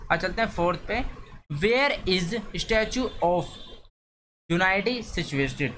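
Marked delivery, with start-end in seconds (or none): 1.6-5.7 very slow, each word set apart; slow dictation. Shown as a demonstration. Teacher reading question four to the class, very slow dictation. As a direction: read it out for pupils copying it down.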